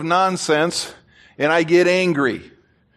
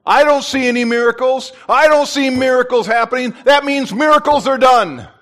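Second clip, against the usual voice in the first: mocking the preacher; 3 semitones higher, 3 dB louder than usual. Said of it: "he's standing there going".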